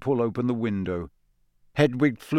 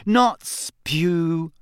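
curt, impatient correction of spew; 5 semitones higher than usual. Acted. Hermione correcting Harry, impatient and clipped. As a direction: brush off the word spew impatiently. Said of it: "said Hermione impatiently".

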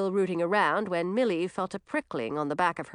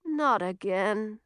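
muttered; 4 semitones higher, much slower than usual. Acted. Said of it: "muttered Francis".

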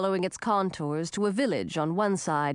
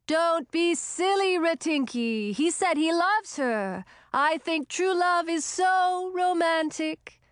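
put-on young witch voice; 7 semitones higher, slower than usual. A narrator's reading. Young witch dreamy about love.

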